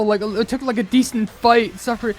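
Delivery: high, loud, incredulous; can't believe how fast it went; disbelieving outburst. Real, not acted. Shocked reaction to sudden game event.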